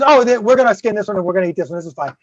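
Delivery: rapid offhand imitation, dropping away at the end; retold breezy, matter-of-fact explanation; mock nonchalance. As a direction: rattle it off as if nothing happened. Retold girl casually explains the killing.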